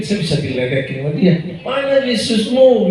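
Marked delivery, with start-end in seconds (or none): 1.6-2.9 slow, higher teasing jab; imitating a friend who sneers at him; mocking taunt. Friend mocking the preacher's faith, slow teasing taunt.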